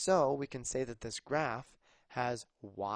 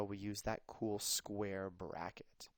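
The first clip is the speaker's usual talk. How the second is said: whisper; 3 semitones lower, 7 dB quieter, slower than usual. Real, not acted. Teacher whispers aside.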